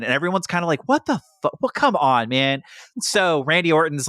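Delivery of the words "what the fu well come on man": mock disbelief. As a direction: yelp it like the crowd can't believe it. Crowd reacts in disbelief.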